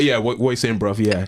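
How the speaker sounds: put-on casual South London accent; fitting in at a Canning Town school in a London accent; London slang accent. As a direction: drop into London street talk. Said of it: "I had to switch it up".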